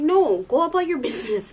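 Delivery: half-laughing, indignant mock protest; acted retort. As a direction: send them away, high and loud.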